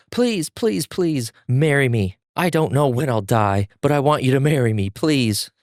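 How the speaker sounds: high, slow desperate begging; begging plea. Acted. Zenitsu begging a girl to marry him, pleading high. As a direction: beg her over and over to marry you. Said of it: "we hear a bunch of pleas".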